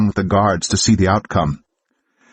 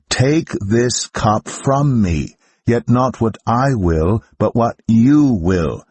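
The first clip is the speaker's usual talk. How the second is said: slow, higher, pleading prayer; anguished prayer; 4 semitones higher, slower than usual. Acted. Jesus prays in Gethsemane to his Father, slow and anguished.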